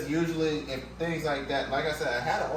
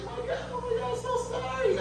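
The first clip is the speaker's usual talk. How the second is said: very high, frantic imitation of the owner; panicked woman. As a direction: squeak out her apology. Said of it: "she's like".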